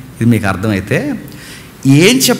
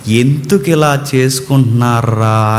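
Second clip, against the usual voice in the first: put-on "ఎందుకు ఇలా చేసుకుంటున్నారా?" lower and slow, a father grieving over his children; slow, lower lament over people; grieving God, right reading; 5 semitones lower, slower than usual. Shown as a demonstration. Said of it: "అని కాదు".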